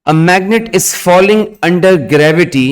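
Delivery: slow, word by word dictation; dictating. Acted. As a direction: dictate slowly for students to write. Teacher dictating notes to students.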